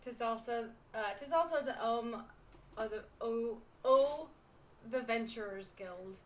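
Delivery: halting attempt at pirate brogue; unsure amateur pirate accent; bad pirate accent. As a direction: stumble through a put-on pirate accent. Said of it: "the accent isn't written consistent".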